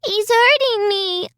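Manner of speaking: put-on high, slow frightened child's cry; a little girl crying out in pain, drawn out high. A narrator's reading. Little girl telling her mother she is hurt, high frightened cry. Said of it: "Alicia cried".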